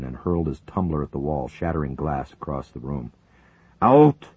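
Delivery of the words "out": enraged, much louder, higher bellow. Acted. Zelinkov throwing the colonel out, enraged bellow. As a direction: roar him out of the room. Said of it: "Zelinkov bellowed, enraged".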